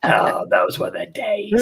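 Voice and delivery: put-on laughing old lady. Barbara voice, laughing.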